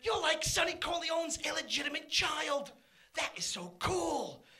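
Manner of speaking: mildly hammed-up awe, starting high; retold excitement. Son telling his dad he's like Andy Garcia, mock excited. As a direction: act out a thrilled kid, slowing at the end. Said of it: "I got all excited".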